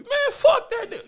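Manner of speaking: high, laughing dismissal; laughing scoff. Real, not acted. To the doubters, laughing scorn. Mocking the people he resents.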